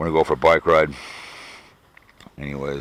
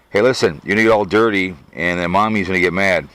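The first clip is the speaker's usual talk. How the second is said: a louder, higher mock warning to a pet; talking to the dog; 3 semitones higher, 5 dB louder than usual. Real, not acted. Owner warns his dog Chloe about mommy, in louder pet-talk. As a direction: playfully warn the dog off the dirt.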